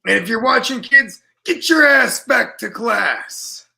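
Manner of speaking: put-on loud, slow scolding of the kids; mock scolding. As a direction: bark it at the kids like a strict parent. Scolding kids watching the stream.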